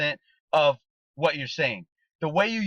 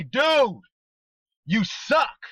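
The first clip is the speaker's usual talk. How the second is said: "Dude, you suck" pitched high and louder, rising on "suck"; high mock jab; 6 semitones higher, 4 dB louder, much slower than usual. Shown as a demonstration. Coach showing the team a joking tone, high and playful. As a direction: lift "Dude" high and swing "suck" up, teasing. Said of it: "See, that's two different things".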